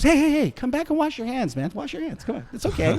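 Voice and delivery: high friendly call, softening at the end; Michael J. Fox calling back. Retold or imitated. Michael J. Fox calls the friend back to wash his hands, high and friendly. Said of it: "Mike goes".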